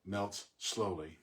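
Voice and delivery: "Melts slowly" said slowly with "Melts" leaned on; stress on Melts. Shown as a demonstration. Teacher showing the class the stressed syllable, slowly. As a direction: land the beat squarely on "Melts", then ease into "slowly". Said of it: "Third is the stressed syllable".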